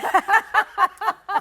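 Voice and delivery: high, loud burst of laughter. Real, not acted. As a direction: let a big laugh out.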